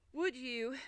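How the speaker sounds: halting words, out of breath from running; panting. A narrator's reading. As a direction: gasp out a polite request. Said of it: "Alice panted out".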